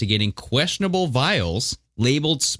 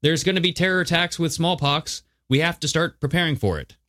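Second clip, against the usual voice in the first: much higher-pitched mock impression; Bill Gates; 6 semitones higher than usual. Co-host quoting a smallpox warning, high impression. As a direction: pitch it way up to mimic a public figure's warning. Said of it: "Bill Gates shit where he's saying".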